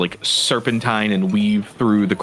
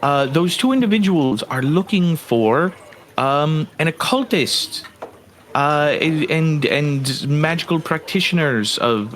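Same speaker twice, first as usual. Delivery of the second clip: lightly voiced satyr, a little higher and halting; polite, hesitant satyr; 4 semitones higher than usual. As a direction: explain the offer tentatively, in mild character. Game master's satyr explains the job.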